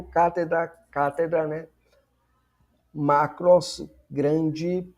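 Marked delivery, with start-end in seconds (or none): 2.9-3.9 emphatic. Shown as a demonstration. Teacher contrasting one word.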